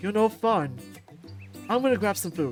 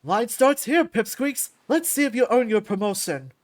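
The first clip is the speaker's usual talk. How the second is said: taunting challenge shout; 3 semitones higher, 7 dB louder than usual. Acted. Champ lining up pipsqueaks to fight, taunting shout. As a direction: call them out cockily.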